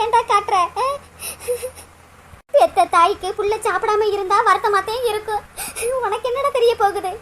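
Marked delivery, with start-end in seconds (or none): 6.1-7.1 crying reproach. Acted. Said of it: "நீ இப்ப எதுக்கு அழுதுகிட்டு இருக்க".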